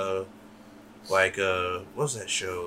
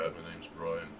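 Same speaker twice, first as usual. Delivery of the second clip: put-on Irish accent; 5 semitones lower, 13 dB quieter than usual. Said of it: "I can't do it real good".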